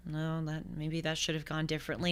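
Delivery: soft, noncommittal mock reply; lukewarm hedging. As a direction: shrug it off, barely bothered.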